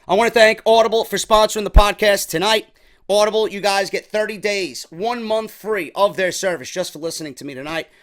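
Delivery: upbeat, loud start to the sponsor read; lightly hyped ad read. Acted. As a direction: sell it like a podcast ad spot.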